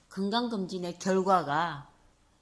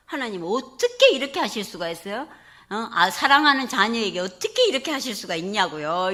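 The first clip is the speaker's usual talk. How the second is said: lament to God; 5 dB louder than usual. Retold or imitated. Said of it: "넋두리 하는 거예요".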